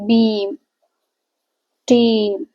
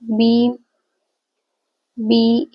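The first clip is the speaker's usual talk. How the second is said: slow demo; much slower than usual. Shown as a demonstration. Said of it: "then here is".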